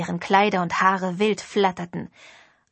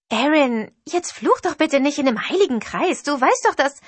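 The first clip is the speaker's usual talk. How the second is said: higher, lilting Oklahoma singsong; sweet Oki singsong; 6 semitones higher, 4 dB louder than usual. Acted. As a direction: sing the reproach sweetly in an Okie lilt. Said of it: "in ihrem süßen Oki-Singsang".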